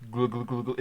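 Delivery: cartoon character gulping. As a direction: glug glug like a cartoon drinking. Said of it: "It sounds like a cartoon character".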